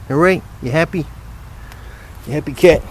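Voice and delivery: high pet talk. Real, not acted. Man asking his cat if it's happy, high cooing voice. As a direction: coax the cat sweetly.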